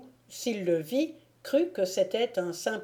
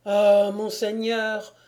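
pleading cry; 5 dB louder, slower than usual. Acted. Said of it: "s'écria Thibault".

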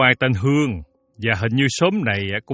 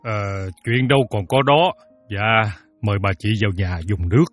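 conciliatory, polite invitation; smooth it over gently; softened voice. Acted. Father calming the creditor and inviting her in, mildly. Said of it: "nói dịu giọng".

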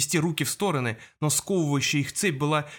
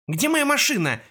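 coughing; 10 semitones higher, 4 dB louder than usual. A narrator's reading. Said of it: "кашляя спросил Джаспер".

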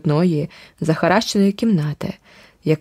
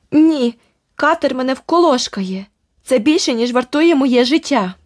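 she is terrified of her husband; panicked refusal; 6 semitones higher than usual. Acted. Terrified shopkeeper refuses the bribe.

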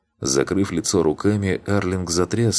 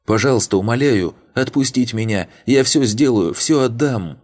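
high, loud tearful begging; desperate begging; 7 semitones higher, 4 dB louder than usual. A narrator's reading. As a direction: beg frantically, overplaying the fear. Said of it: "слёзы страха". (громко, высоко, умоляя сквозь слёзы)

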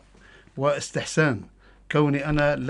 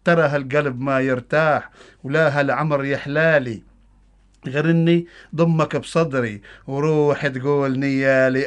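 loud, higher Bedouin dialect poem recitation; Bedouin Arabic accent; 4 semitones higher, 7 dB louder than usual. Acted. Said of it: "قصيدة باللهجة البدوية".

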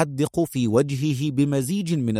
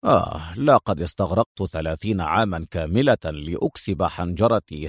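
low, relaxed male voice; low unbothered spy voice; calm; 5 semitones lower than usual. Acted. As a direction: shrug it off, low and easy. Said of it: "في هدوء".

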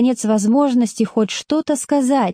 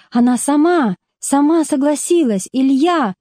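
despairing; 5 semitones higher than usual. Acted. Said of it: "воскликнула Зина с отчаянием".

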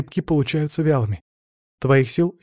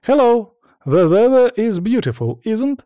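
high, louder cheery hello; friendly greeting; 8 semitones higher, 5 dB louder, slower than usual. Acted. Maryana cheerfully greeting the Chinese tourists, friendly. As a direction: smile and wave it to the strangers. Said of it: "улыбнулась китайцам и приветливо".

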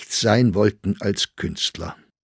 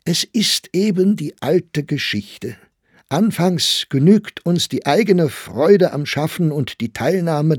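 a higher, louder, impassioned speech; impassioned outcry; 5 semitones higher, 3 dB louder than usual. Acted. Young man declaims to the old poet about forgotten artists, impassioned. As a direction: pour out the bitterness of the artist with fervour. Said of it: "rief er aus".

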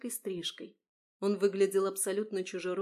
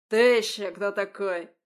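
loud barked challenge; 9 dB louder than usual. A narrator's reading. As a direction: snap at the stranger. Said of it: "рявкнул он". (громкий рявк)

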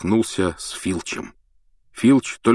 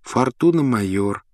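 listless voice; 4 semitones higher than usual. Acted. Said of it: "вялым голосом назвал пароль Гарри".

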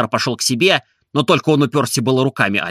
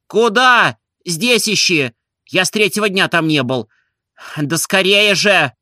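impatient shout; 6 semitones higher, 3 dB louder, slower than usual. A narrator's reading. Барин кричит на слугу.

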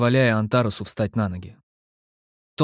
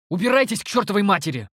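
high, hostile outburst; bristling; 9 semitones higher than usual. A narrator's reading. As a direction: snap at them, bristling. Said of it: "ощетинился я". (высокий злой выкрик)

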